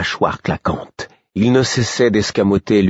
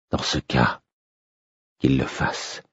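grave et faible; voix éteinte; 6 semitones lower, 5 dB quieter than usual. A narrator's reading. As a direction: consentir d'une voix basse, sans force. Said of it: "dis-je d'une voix éteinte". (roi accablé, voix éteinte)

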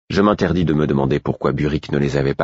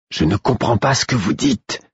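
higher and a bit louder, repeating to be heard; louder repeat, higher pitched; 7 semitones higher than usual. A narrator's reading. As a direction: raise the voice to carry through the wall. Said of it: "répétai-je plus fort".

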